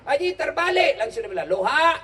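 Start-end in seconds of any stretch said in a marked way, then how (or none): 0.0-1.0 high, louder call to the haji. Retold or imitated. Calling out to the haji. 1.5-2.0 high, loud loha with a laugh; confused shout. Retold or imitated. Haji shouts reversed halo.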